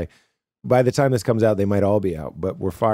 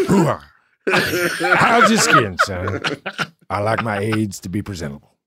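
talking with gum in mouth; words around a wad of gum; chewing gum. Real, not acted. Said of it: "I've gum in my mouth".

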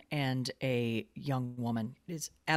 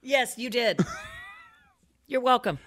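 laughing shout; 8 semitones higher, 3 dB louder than usual. Real, not acted. Co-host teasing after a text.

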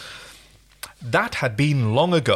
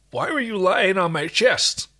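higher, baffled question; bewildered; 7 semitones higher than usual. Acted. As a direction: ask in honest confusion. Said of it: "he asked with true bewilderment".

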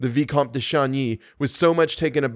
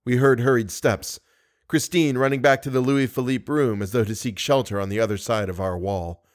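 measured audiobook reading; story narration. A narrator's reading. Narrator opens the chapter for listeners, storytelling.

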